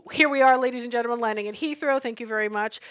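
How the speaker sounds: pilot-style PA voice, chatty and brisk; fake airline announcement. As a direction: read it like a cabin announcement. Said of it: "people recording fake P S As".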